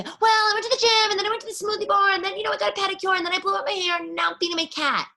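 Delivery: high, loud, fast gushing chatter; high, fast, loud mock gusher listing her day; gushy girly texter. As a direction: rattle it off like a gushing girl. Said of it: "the guy's like".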